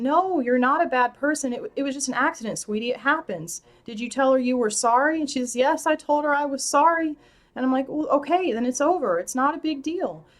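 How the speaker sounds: gentle consoling mother. Retold or imitated. Mother consoling crying daughter.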